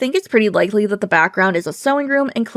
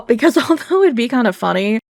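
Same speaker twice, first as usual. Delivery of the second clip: ordinary talk, nothing marked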